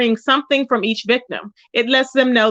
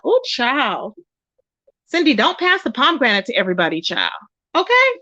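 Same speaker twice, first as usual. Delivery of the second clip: sassy scolding. Retold or imitated. Mock scolding quote to friend.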